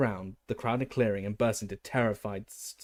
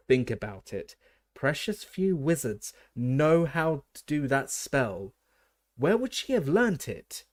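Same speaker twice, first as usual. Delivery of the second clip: slow, higher, louder plea to reason; loud and urgent; 4 semitones higher, 4 dB louder, slower than usual. A narrator's reading. Colleague urges the official to think, loud and slow. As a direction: press the point hard. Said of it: "said Mister Weasley loudly".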